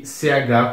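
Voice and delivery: "ch" as a short 'tch', like the start of tchau; isolated CH sound. Shown as a demonstration. Teacher isolates the sound for students, short 'tch' for "ch". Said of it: "com som de ch".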